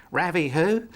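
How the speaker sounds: a hint of a bewildered stranger on the phone; puzzled "Ravi who?". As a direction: mimic her confused reply with a laugh. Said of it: "And she said".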